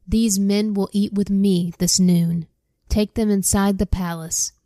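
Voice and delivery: steady read-aloud storyteller voice; reading scripture aloud to listeners; story narration. Acted. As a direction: read the Bible story to the class. Reads Bible story aloud.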